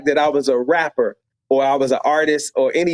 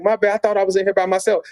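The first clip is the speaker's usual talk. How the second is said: higher, fast flustered apology; 6 semitones higher, faster than usual. Retold or imitated. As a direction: blurt out a quick sorry, caught off guard. Caught off guard, apologizing.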